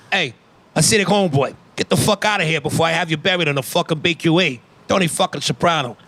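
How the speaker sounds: lightly voiced fast-talking mobster; hint of an indignant mob boss; Tony Soprano. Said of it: "drug deal with Tony Soprano".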